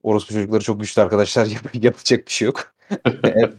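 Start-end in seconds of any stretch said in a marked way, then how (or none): 1.4-3.5 laughing. Real, not acted. Laughing at rude tweet.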